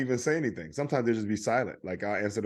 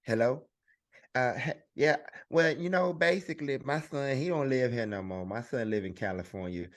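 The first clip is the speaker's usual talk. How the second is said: a lightly voiced chatty mother rambling; mom's voice. Comedian does his mom telling a caller her son's life story. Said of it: "my mom's voice".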